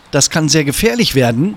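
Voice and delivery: leicht besserwisserisch, etwas höher; ein bisschen schlaumeierhaft. Acted. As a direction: wie ein kleiner Besserwisser belehren. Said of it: "ein bisschen schlaumeierhaft". (leicht besserwisserischer Ton)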